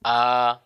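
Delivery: A held open and voiced; long, open A with no breath; open hamzah. Shown as a demonstration. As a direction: sound "A" with open vocal cords. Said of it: "terbuka pita suara".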